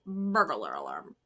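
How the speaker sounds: put-on low, drawled burglar alarm in a Southern accent; mock Southern lady saying burglar alarm with the r's rolled; a light Southern imitation of "Burglar alarm". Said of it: "walking around my house going".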